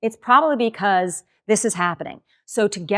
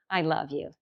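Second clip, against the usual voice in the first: quiet, tender I love you; soft version; 4 semitones lower, 9 dB quieter than usual. Shown as a demonstration. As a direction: say "I love you" softly, almost to yourself. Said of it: "three different ways".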